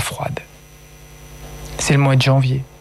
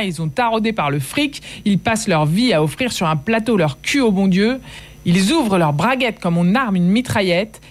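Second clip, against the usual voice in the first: higher, raw address to her dead father; higher, bitter outpouring over the body; speaking loudly to the dead; 5 semitones higher than usual. Acted. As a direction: talk to him as if to wake him. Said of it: "Je lui parlais fort".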